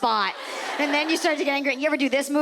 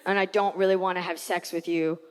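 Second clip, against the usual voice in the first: mock hesitant boyfriend, voice dropped lower; lowered fiance voice; 6 semitones lower than usual. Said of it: "And he goes".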